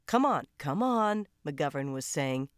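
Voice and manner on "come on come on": 1 urgent coaxing. A narrator's reading. McGovern calming Lucy.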